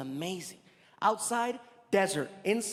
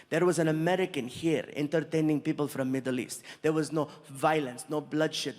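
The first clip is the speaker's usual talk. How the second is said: low, composed royal voice; earnest prince; 4 semitones lower than usual. Retold or imitated. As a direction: imitate the prince marvelling, voice kept low. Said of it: "He's like".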